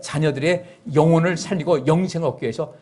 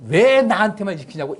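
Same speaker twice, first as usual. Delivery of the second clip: sulky complaint; 5 semitones higher than usual. Retold or imitated. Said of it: "아들이".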